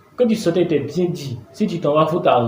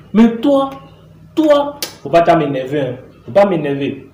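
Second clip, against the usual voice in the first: sharp, raised warning at the daughter; angry warning. Acted. Father warning his daughter not to anger him, raised and sharp. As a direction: snap at her to stop provoking you.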